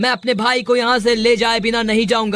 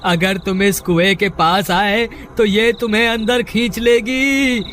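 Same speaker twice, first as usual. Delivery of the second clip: calling a warning. Acted. Trapped brother calls warning from well.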